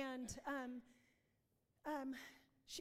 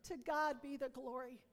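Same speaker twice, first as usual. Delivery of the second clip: louder, rising praise of God; joyful praise; 4 dB louder than usual. Retold or imitated. Hearing the cancer is gone, joyful louder praise. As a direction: celebrate the healing aloud. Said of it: "And I was like".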